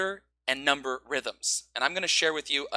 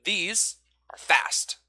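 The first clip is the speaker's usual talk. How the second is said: slow demo phrase; 4 semitones higher, much slower than usual. Shown as a demonstration. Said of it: "Encourage to say".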